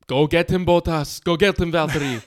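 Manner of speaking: loud radio shout, fast. Retold or imitated. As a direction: yell it like a team boss on the radio. Imitating team boss shouting on radio.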